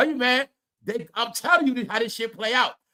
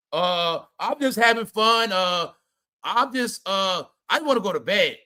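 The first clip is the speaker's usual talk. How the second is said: mocking evasive Serena. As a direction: ham up a flustered dodge, "I'm just having fun" with stalling uhs. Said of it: "You see her ducking it".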